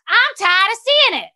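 imitating a singer fed up. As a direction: mimic a fed-up star. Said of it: "So she's like".

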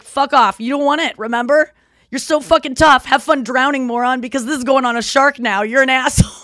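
hammed-up rant at the dolphin; telling off.

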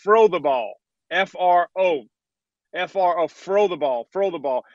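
"Throw" said as fro, no th sound, in Pittsburgh fashion. Retold or imitated. Host mocking the caption, saying "throw" as fro in Pittsburgh accent. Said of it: "And they put T H R O double".

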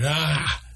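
short high startled cry of fright; startled shout. Acted. Noah startled by a camel's face, high short cry. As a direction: yelp in surprise at the ugly furry head. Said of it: "Noah shouted".

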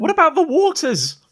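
high, loud worried heckler; confused villager. Acted. Villager interrupts the rousing speech, high loud voice. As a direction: call out high from the back.

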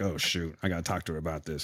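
imitating a husband worried about asking his partner; mock worried mutter. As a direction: mutter it nervously under your breath. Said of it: "that shoot was more like".

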